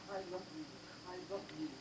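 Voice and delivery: soft whispered I love you; whispering. Acted. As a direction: breathe it into her ear, very soft. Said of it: "he's whispering to her".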